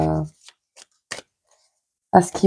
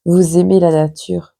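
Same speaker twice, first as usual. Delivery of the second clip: talking through a blocked nose; stuffy, blocked-nose voice. Real, not acted. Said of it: "j'ai le nez bouché".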